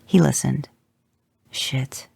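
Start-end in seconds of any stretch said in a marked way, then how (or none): 1.5-2.1 whispered curse. A narrator's reading. Hears bad voicemail.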